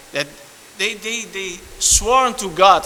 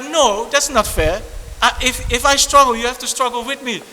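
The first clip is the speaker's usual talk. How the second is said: whiny jealous friend; 5 semitones higher than usual. Retold or imitated. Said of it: "They're like".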